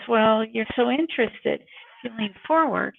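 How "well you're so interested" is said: sarcastic. Shown as a demonstration. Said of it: "If you're leaned back like this".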